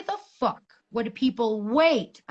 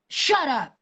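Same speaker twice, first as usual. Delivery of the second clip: a mild mock yell at the crying child, a touch higher and louder; retold scream; 5 semitones higher, 4 dB louder than usual. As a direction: snap it out as if reliving the moment. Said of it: "And I screamed".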